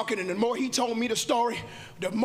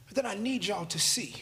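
hushed, secretive whisper; 5 semitones lower, 4 dB quieter than usual. Real, not acted. Pointing to a clue.

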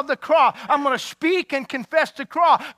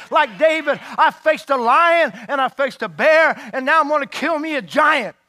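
full-force preaching; 2 semitones higher than usual. Acted.

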